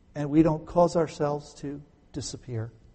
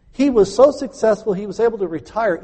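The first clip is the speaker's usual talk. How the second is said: rising excitement; 6 semitones higher, 5 dB louder than usual. Acted. Preacher building Vito's success story.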